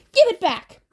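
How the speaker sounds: high, loud crone shout; snatch at it with your voice; screeching witch; hag demand. Acted.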